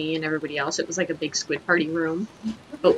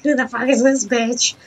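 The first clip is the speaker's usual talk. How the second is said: retold annoyance; 7 semitones higher, 5 dB louder than usual. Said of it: "I was just like".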